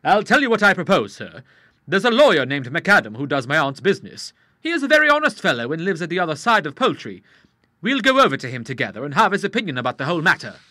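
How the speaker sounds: put-on a blunt young fellow who smells a rat; lightly voiced suspicious young man; young Charles, suspicious. Charles proposes the lawyer.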